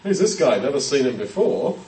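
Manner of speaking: offhand, puzzled who's-this; casual puzzled. Retold or imitated. Preacher voicing a shrugging crowd, offhand puzzled. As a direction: toss it off like a stranger passing by. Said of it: "they don't mean like".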